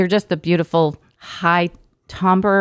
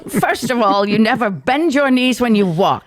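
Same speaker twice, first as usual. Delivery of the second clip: higher, theatrical British critique; Jacques's British accent; 7 semitones higher than usual. Retold or imitated. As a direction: imitate a pronouncing British drama chairman. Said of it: "he had a British accent somehow".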